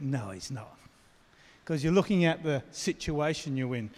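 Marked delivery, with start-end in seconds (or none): 0.0-0.8 low, soft sceptical retort; low, quiet doubting reply; inner grumble. Retold or imitated. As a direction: mutter it under your breath, unconvinced. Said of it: "And you think".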